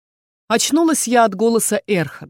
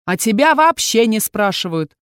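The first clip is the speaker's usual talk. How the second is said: snapping; 3 semitones higher, 5 dB louder than usual. Acted. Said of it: "огрызнулся капитан".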